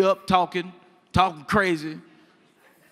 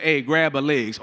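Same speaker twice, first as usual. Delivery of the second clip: matter-of-fact order; 5 semitones lower than usual. Retold or imitated. Father gives matter-of-fact order.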